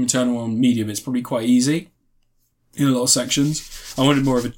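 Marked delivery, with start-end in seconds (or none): 2.7-4.5 talking through a burp; burpy, gassy words; burping after fizzy drink. Real, not acted. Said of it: "Sorry, I'm burping".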